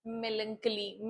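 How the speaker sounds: melancholy said slowly as MEL-un-kuh-lee; drawn-out model of melancholy, hard k; correct pronunciation again. Shown as a demonstration. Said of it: "क्या बोलोगे?".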